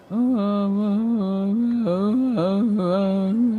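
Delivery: high, loud flustered "oh"s, voicing a confused crewman; confused Chug. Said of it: "all confused and all like".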